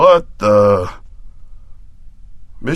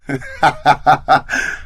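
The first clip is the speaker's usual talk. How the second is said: laugh; 4 dB quieter than usual. Acted. Laughing at partner's remark.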